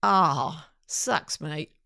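lightly imitated Australian sympathy; Australian accent. Friend showing how to answer a problem, in Australian accent. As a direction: commiserate briefly in a mock Australian accent. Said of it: "in her Australian way".

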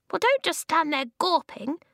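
high, weedy, cross little man; squeaky voice. A narrator's reading. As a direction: squeak it out indignantly. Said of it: "the voice squeaked".

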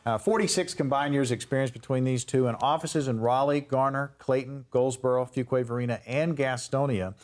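polished radio intro with steady projection; radio host read. Real, not acted. Host welcoming listeners back to the legal show, radio host read.

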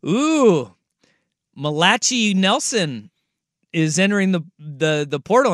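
slow, proud announcement in a mimicked wife's voice; imitating his wife. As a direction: mimic her confidently mispronouncing "Malachi". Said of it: "the way she says".

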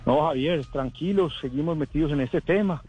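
muffled speech through a face mask. Real, not acted. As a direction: talk through a cloth mask while walking. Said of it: "Está hablando con el tapabocas".

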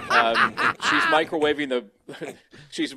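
laughing. Real, not acted. Laughing over microwave confession.

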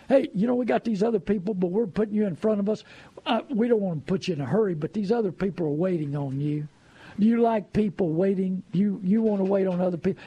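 fast, mild mock sales pressure; pushy salesman. Dealer hurrying a customer to sign, fast and pushy. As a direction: rush him through the signing lightly.

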